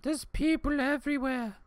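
high, drawn-out mock fright; scared guest. Guests imagined in the spooky park, high mock fright. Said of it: "Be like".

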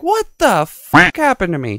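high, mock-horrified old man; hammed-up grandpa shocked at his reflection; imitating grandpa. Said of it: "he's like".

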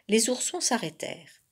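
ordinary delivery

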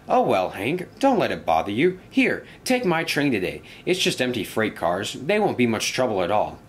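lightly voiced reassuring friend; a hint of breezy encouragement; friendly engine. Engine offering his train to a spooked friend, lightly acted reassurance.

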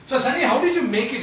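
fast, laughing and loud. Real, not acted. Husband asking wife on camera, laughing. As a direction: laugh out the question.

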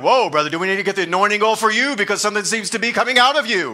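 playful fast ribbing; teasing rebuke. Pretend. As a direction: rattle it off like a joking friend calling someone out. Mock rebuke of snorting angry man.

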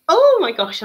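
high, loud burst of real excitement; sudden high, loud oh my gosh; excited squeal. Real, not acted. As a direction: gasp it out, thrilled. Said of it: "I'm so excited".

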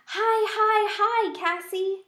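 high, loud squeaky hamster greeting; thrilled little hamster; excited squeak. A narrator's reading. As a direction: squeal with joy at a friend.

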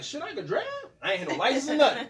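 high, giddy disbelief; amazed and laughing; surprised. Retold or imitated. Amazed at being offered car.

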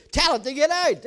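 rally the crowd to shout; rousing call. Real, not acted. Pastor urging the congregation to command fear out, loud.

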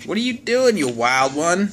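high sing-song to the dog; pet voice. Real, not acted. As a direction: tease the dog playfully. Talking to the dog.

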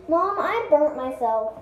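calling out to mom, slow; slow, loud call across the house. Real, not acted. Child calls to mom.

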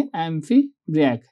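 "Amphibrach" said slowly and deliberately, EM-pi-brak; say the term. Shown as a demonstration. Teacher giving the class the new term "Amphibrach" slowly. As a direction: spell out "Amphibrach" for the class, every syllable. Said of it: "क्या बोलेंगे?".

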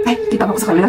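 mock coy voice, checking the camera; mocking imitation. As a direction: imitate her fussing over the camera angle.

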